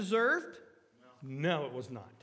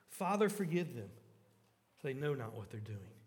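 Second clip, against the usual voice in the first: much softer and lower, fading; soft plea; 6 semitones lower, 5 dB quieter than usual. Acted. Jesus praying for his tormentors, soft and low. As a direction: let it sink to a tender hush.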